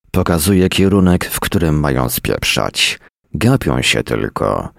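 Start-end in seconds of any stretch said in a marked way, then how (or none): none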